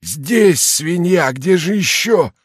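громовой голос с сиплым северонемецким акцентом; грубо прогреми из тёмного угла; deep thundering voice. A narrator's reading. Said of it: "глубокий громовой голос". (громовой голос, выше и громче)

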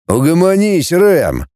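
plain reading voice

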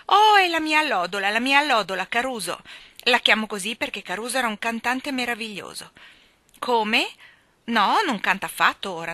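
high, loud booming lady. Acted. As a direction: boom it down the stairs like a bossy spinster. Miss Andrew talking loudly upstairs.

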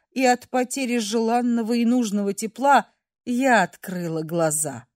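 plain reading voice

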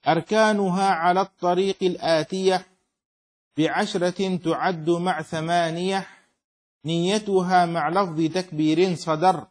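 slow, metrical didactic verse; verse recitation. Acted. Teacher reading the poem on prayer conditions, slow measured recitation. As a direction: recite firmly in even meter, drawing out syllables.

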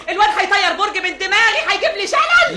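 throws up her hands in despair; frantic outcry. Acted. Mother frantic over son's plan.

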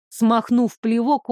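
usual speaking voice

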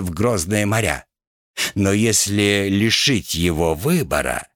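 a hint of a sinister hoarse gunner; creepy hoarse voice. Rat plays the gunner plotting with the captain, eerie and hoarse. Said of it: "жутким хриплым голосом".

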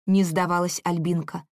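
ordinary delivery

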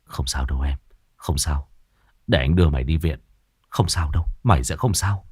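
calm him, barely above a murmur. Acted. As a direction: hush a dying friend. Vinh holds the dying boy.

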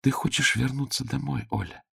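soft, high magic mirror voice; gentle crystal-bell voice; ringing crystal chime voice. A narrator's reading. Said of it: "красивый звенящий голос".

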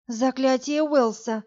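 slow, breathless gasp of wonder; delighted gasp. Acted. Varya sees a rare spell and gasps in delight. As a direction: breathe it out in awe. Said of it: "восторженно выдохнула Варя".

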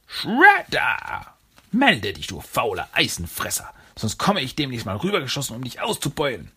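shrill alien villain calling over the radio; shrill Krang. Acted. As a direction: screech it like a buzz saw. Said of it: "Cranks Stimme durchschnitt die Stille wie ein schrille".

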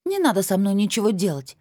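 high, tearful whine through sobs; teenage girl sobbing her refusal; crying girl. A narrator's reading. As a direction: whine it out through tears, nasal. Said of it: "прогундосила Анжелика сквозь рыдания".

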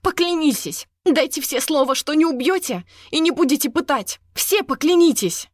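high, loud demand for an oath. A narrator's reading. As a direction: insist they all swear. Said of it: "громко спросила". (громкое требование)

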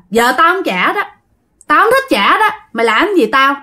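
mildly insolent retold refusal. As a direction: refuse with a touch of cheek. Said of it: "ổng nói bố láo lắm".

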